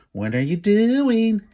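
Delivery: high, loud, slow jeer. A narrator's reading. Kip jeering at the wolf, high, loud and slow. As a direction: jeer at him from up the tree. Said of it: "jeered Kip".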